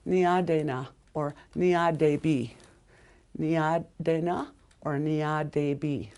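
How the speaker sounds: said slowly, syllable by syllable; slow careful kin term. Shown as a demonstration. Teacher modeling Niadena for a student, slow and clear. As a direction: spell out Niadena slowly for the learner. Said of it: "your father's brother".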